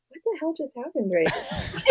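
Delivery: high, amused bafflement through a laugh; laughing disbelief. Retold or imitated. Therapist retelling her shock at the veteran hanging up, laughing disbelief. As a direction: ask it half laughing, still stunned. Sat there stunned, laughing.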